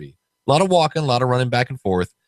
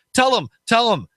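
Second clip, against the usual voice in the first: put-on slurred drunk voice; 11 semitones higher than usual. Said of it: "notice the slurred speech".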